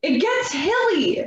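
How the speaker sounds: high-pitched, drawn-out call; yelling from a tree. Acted. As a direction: holler it down from up in a tree. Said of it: "from the tree just yell".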